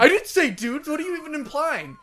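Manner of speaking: loud, high indignant denial; mock outrage. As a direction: shout the denial, offended.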